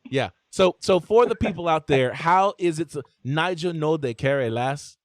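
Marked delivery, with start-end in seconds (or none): 3.2-5.0 Nigerian accent. Shown as a demonstration. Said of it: "How's that supposed to sound?".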